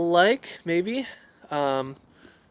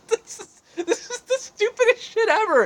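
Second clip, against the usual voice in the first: fed-up cry, pitched way up and louder; exasperated outburst; 4 dB louder than usual. Real, not acted. Vlogger fed up with her selfie stick, exasperated high outburst. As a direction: blurt it out, sick of the gadget.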